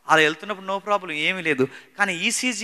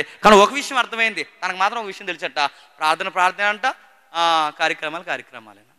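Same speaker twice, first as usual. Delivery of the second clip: normal talking voice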